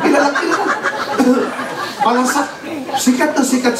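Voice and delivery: breaks into a real laugh. Real, not acted. Pastor laughing as he tells the congregation. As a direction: laugh through the word, amused.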